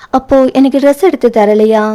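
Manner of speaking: usual speaking voice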